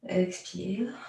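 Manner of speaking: breathy whispered exhale cue. Real, not acted.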